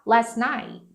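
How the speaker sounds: "last night" run together, final T unreleased; native-style held T. Shown as a demonstration. Teacher copying native speakers, "last night" with T held. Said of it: "o nativo tende a falar".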